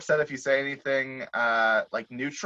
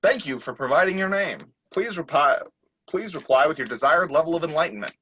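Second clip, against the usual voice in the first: automated message; 3 semitones higher, 3 dB louder than usual. Acted. Automated phone message replies.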